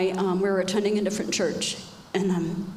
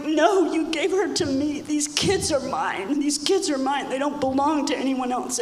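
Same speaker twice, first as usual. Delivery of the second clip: angry protest; 4 semitones higher than usual. Retold or imitated. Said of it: "I'm like".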